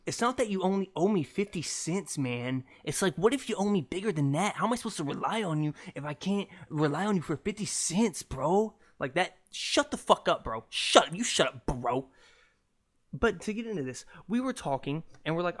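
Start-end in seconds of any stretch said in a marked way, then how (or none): 0.1-8.8 heated arguing. Acted. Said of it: "when you get an argument". 9.5-12.1 acted squabble. Acted row over fifty cents.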